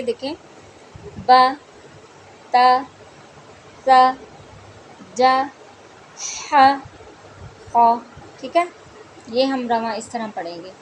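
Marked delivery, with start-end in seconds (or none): 1.2-8.0 loud, separate short syllables; fluent reading. Shown as a demonstration. Teacher reads the syllables fluently for students, loud and crisp. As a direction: read each syllable crisply, one by one. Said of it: "अब हम इनको रवां ऐसे पढ़ेंगे".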